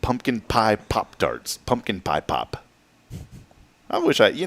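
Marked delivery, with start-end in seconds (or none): 0.0-2.6 slow tongue-twister try. Shown as a demonstration. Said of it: "Say that twenty times fast".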